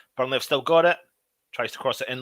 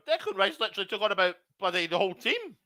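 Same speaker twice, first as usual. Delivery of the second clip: amazed disbelief; 8 semitones higher, 3 dB quieter, faster than usual. Real, not acted. Amazed after the run.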